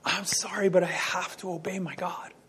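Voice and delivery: gently decline, regretful but firm; humble apology. Retold or imitated. Apostles answering the government, softly apologetic. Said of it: "what they said is".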